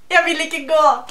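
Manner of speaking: acted quote, loud; quoted plea in Norwegian. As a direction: recite it as a loud mock plea. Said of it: "Say a Doctor Who quote".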